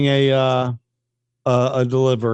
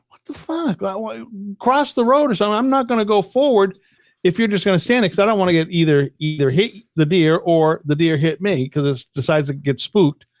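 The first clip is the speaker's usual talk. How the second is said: higher, fast, mock-exasperated plea to a deer; 4 semitones higher than usual. Driver pleads with a stubborn deer, mock exasperated. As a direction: hurry up, deer, cross already.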